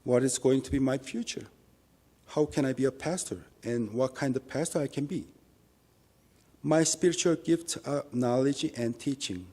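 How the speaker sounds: usual speaking voice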